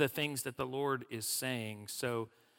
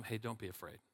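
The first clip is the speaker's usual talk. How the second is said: softly reassuring prophet; calm reassurance; 2 semitones lower, 8 dB quieter than usual. Retold or imitated. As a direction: settle the servant down, much softer. Prophet calming the panicked servant.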